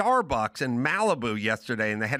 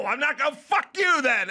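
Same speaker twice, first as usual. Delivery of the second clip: mock kid shout; 10 semitones higher than usual. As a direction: shout it like a spoiled teen. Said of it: "kid yells".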